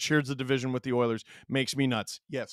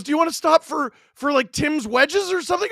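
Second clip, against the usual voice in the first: mild wife voice; 12 semitones higher, 3 dB louder than usual. Retold or imitated. Wife voiced in retold story.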